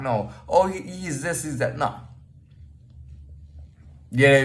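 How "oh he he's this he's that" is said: higher-pitched mock labelling; mimicked snap judgement. People pinning one label after another on him, mock guessing. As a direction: rattle off labels as an imitated onlooker.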